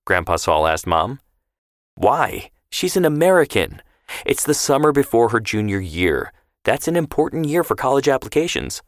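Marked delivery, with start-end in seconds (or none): 2.0-8.8 higher, insistent mother's voice; arguing mother. A narrator's reading. Mother arguing with Grandpa over the summer, raised pitch. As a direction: press the point like a worried mom. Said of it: "Mom argued".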